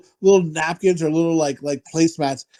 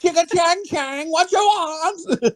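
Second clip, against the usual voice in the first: mock accent; 12 semitones higher, slower than usual. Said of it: "mimicking the restaurant lady".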